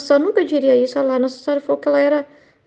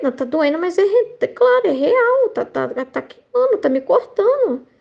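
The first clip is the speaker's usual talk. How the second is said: mock-distressed prayer, rising higher in bursts; retold anguish; 5 semitones higher than usual. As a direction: re-enact admitting pain to God, no real tears. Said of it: "eu tava chorando, tava nervosa". (angústia recontada, sem choro)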